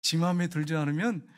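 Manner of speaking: 지 마음에 said the Gyeongsang way, 지 for 내; Gyeongsang dialect. Shown as a demonstration. Preacher recasting the testimony in Gyeongsang dialect. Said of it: "우리 경상도 말로 하면 지 마음에".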